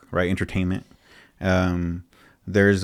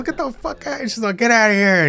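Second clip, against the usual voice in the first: imitated scolding; 14 semitones higher than usual. Retelling Mama C chasing a man off, mock yell. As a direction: mimic a high holler at reduced volume.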